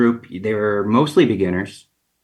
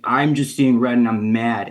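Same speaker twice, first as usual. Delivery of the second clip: usual speaking voice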